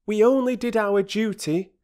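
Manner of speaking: high, loud heroic quote; noble declaration. Acted. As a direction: proclaim it for admiring grandchildren. Peter acting his future boast.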